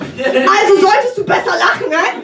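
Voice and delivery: a touch of blunt German menace; German half scolding the audience; Helga in German. Acted. Comic to audience, lightly menacing German line. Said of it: "Helga really likes to take control".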